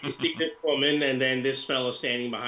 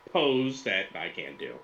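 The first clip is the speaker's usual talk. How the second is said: ordinary talk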